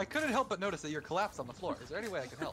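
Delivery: superhero voice. Pretend. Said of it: "like, a superhero voice".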